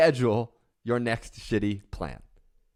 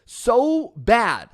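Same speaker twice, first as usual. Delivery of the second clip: harsh self-criticism; 4 semitones higher, 4 dB louder than usual. Retold or imitated. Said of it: "we look at ourselves in the mirror and we go".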